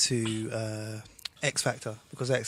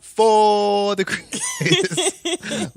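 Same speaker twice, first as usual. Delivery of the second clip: drawn out with a laugh; slow, laughing show name; 10 semitones higher, 11 dB louder, much slower than usual. Retold or imitated. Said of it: "I'm talking about me".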